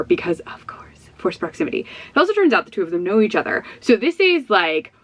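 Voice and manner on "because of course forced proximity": hushed conspiratorial whisper. Real, not acted. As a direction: lean in and whisper it. Conspiratorial aside about forced proximity.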